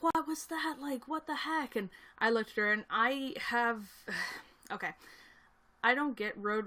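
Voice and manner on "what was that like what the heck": high, indignant imitation of the lady; a high, snippy voice for the angry driver; mocking the other driver. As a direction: mimic her outraged what the heck. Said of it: "she was like".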